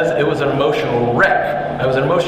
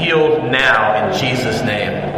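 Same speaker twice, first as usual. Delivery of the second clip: leading a declaration; 5 semitones lower, slower than usual. Shown as a demonstration. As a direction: proclaim each phrase as a call. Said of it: "Say it with me".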